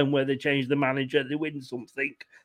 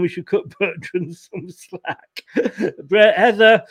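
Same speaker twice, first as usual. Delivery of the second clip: breaking into a laugh mid-sentence; real laughing; 5 dB louder, slower than usual. Real, not acted. Host teased by daughter while talking football, laughing. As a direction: chuckle through the words. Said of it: "I'm laughing 'cause my daughter's come in".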